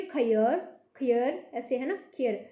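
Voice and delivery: खैर with an ayar sound, kh-ayar; ai sound shown. Shown as a demonstration. Teacher demonstrates खैर for the class, slowly. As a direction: open the ai of खैर toward ayar. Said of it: "थोड़ी सी अयर की सी आवाज़ आनी चाहिए".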